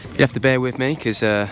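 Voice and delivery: slightly hoarse, tired voice; a voice that's starting to go. Real, not acted. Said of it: "I'm starting to lose my voice a little bit".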